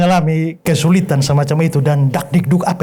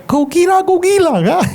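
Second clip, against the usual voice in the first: mock yell; 7 semitones higher, slower than usual. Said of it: "Lalu dia teriak".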